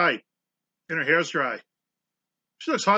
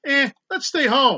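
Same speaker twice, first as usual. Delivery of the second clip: lazy villain voice; 9 semitones higher, 5 dB louder, slower than usual. Pretend. Mocking the villains' lazy choice.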